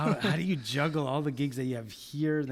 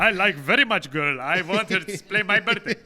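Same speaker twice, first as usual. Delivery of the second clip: bad fake Russian accent, louder; 5 semitones higher, 7 dB louder than usual. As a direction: ham up a Russian oligarch accent. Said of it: "That was the worst Russian accent ever".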